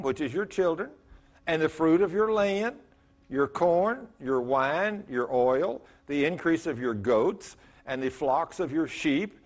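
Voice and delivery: measured, solemn reading of scripture. Acted. Pastor reading the verses to the congregation, measured and solemn.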